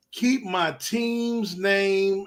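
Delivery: a hint of Will Smith, slow and firm; lightly voiced Will Smith warning; Will Smith impression. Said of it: "in my Will Smith voice".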